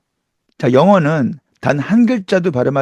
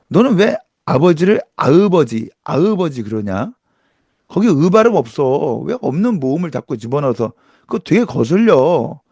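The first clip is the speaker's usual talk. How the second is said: annoyed complaint. Retold or imitated. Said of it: "이렇게 얘기하지 않겠어요".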